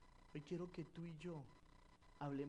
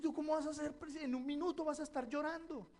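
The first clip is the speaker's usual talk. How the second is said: retold question to the actress; 10 semitones higher, 7 dB louder than usual. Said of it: "Yo dije".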